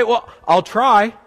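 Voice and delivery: a slow, dragged-out "Well, I'll try"; reluctant noncommittal promise, drawn out; evasive shrug. Retold or imitated. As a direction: hedge it, stretched and vague. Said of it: "my favorite is like".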